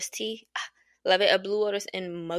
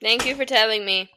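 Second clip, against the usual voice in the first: sharp retort; 3 semitones higher, 7 dB louder than usual. Real, not acted. Arguing with partner off mic.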